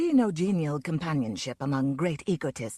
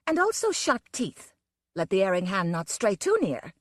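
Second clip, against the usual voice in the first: menacing warning. Acted. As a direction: warn them off with teeth bared. Wolf woman threatens.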